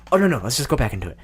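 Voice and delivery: quick, pleading inner voice; imitated brain urging. Host's brain urges him back into the voice, quick nagging. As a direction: rattle it off as a nagging thought. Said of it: "my brain's like".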